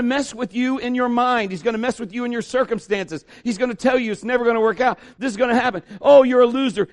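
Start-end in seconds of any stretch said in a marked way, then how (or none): 6.0-6.9 a sneering put-down, a bit louder; mock the listener as a loser; sneering taunt. The enemy taunting a believer, sneering put-down.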